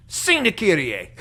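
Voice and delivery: mock a stern Filipino pastor insisting; Filipino accent. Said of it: "he had a very strong accent".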